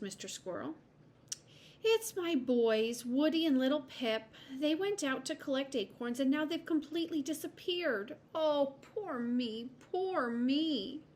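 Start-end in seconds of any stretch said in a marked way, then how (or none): 1.8-11.0 woeful mother, higher pitched; theatrical storybook wail of worry; distressed lament. Acted. Mother lamenting her missing sons.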